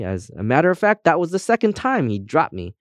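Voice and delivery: lively character telling its misfortunes, often lifted; chatty compass guide. Acted. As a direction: chatter through your own sad history. Compass tells how it was lost.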